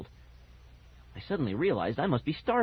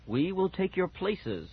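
slow, higher, solemn pronouncement; lightly voiced ghost dog; 5 semitones higher, slower than usual. Ghost dog repeating itself to children, solemn. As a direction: spell it out slowly and ominously.

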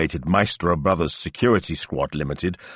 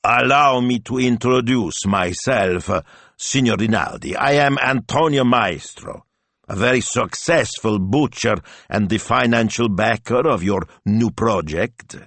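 ingratiating pitch to a famous man; pleasant wheedling; 5 semitones higher, 3 dB louder than usual. Acted. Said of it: "made his voice pleasant now, wheedling".

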